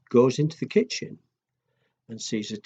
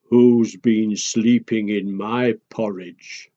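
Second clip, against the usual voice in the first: silly daddy bear; 4 semitones lower, slower than usual. Shown as a demonstration. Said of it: "That would have been silly".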